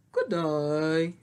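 little puppet farewell; ladybug voice. Pretend. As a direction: chirp goodbye like a bug. Puppet ladybug says goodbye.

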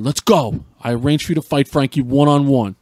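hammed-up fatherly command; really loud. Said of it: "really, really loud".

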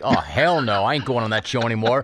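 cold brush-off. Retold or imitated. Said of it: "my man went cold".

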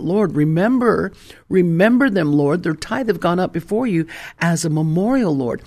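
earnest, emphatic prayer; prayerful appeal. Retold or imitated. Pastor reminds God of the couple's tithe, prayerful appeal. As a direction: call on the Lord with conviction. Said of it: "I could remind God".

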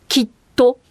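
きっと pronounced with deliberate care on the sounds; voicing demonstration. Shown as a demonstration. Speaker showing voiceless sounds, きっと carefully sounded out. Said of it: "無声音、 有声音とかの概念がなかった".

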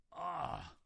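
drawn indignant ah; mild outcry of indignation; cried-out "ah". Retold or imitated. Unclean spirit cries out at Jesus, indignant. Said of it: "he cries out saying".

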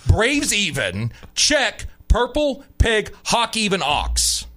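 crisp huddle play call, lightly voiced; quarterback calling cadence. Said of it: "Call the play like a man".

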